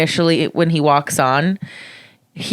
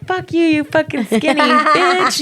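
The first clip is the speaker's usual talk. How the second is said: mock berating; 9 semitones higher than usual. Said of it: "I'm like".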